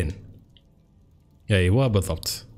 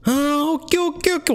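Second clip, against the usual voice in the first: much higher stretched okays; excited realisation. Real, not acted. Player figures out where to go, high excited okays. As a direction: it suddenly clicks.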